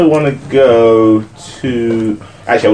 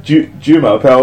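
imitating a strong African accent, laughing; African-accented French; 4 semitones higher, 5 dB louder than usual. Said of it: "in that strong African accent".

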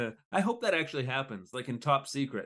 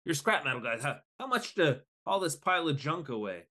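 Penguin voice; 5 semitones higher than usual. Retold or imitated. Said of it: "Penguin's like".

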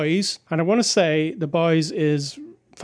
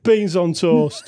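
Beans on toast slow, in a laughing British accent; slower than usual. Shown as a demonstration. Husband repeats dish name in mock British accent. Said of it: "So you say it in a British accent".

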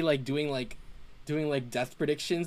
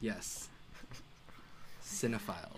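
mock pompous; 6 semitones lower, 13 dB quieter than usual. Real, not acted. Says the word defiantly.

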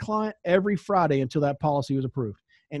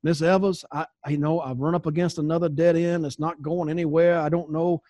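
imitated Southern accent. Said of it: "He tried to do a Southern accent".

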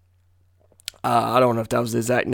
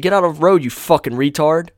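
yelling out of a car window, higher and louder; retold shout; 6 semitones higher, 6 dB louder than usual. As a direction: bark it at a jaywalker in the road. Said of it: "rolled down the window and said".

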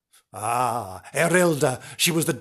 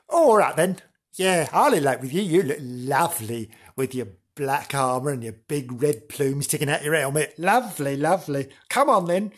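bewitched princess; 3 dB louder than usual. Acted. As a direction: gush as if spellbound. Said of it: "so she went".

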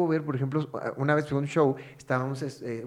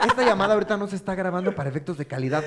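laughing; 4 dB louder than usual. Pretend. Mock flirting on a call center line.

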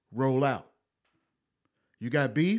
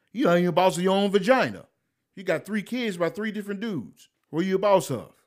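louder and higher, scornful; heated rant; 5 semitones higher, 3 dB louder than usual. Real, not acted. Scolding women who call themselves bosses, loud and scornful. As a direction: hit them with outrage. Ranting at self-styled female bosses.

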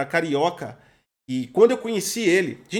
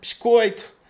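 put-on Carioca accent; 3 semitones higher, 5 dB louder, much slower than usual. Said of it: "o carioca".

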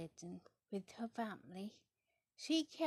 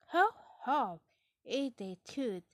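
jolly laugh; 3 semitones higher, 9 dB louder than usual. Acted. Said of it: "Daddy Pig laughed".

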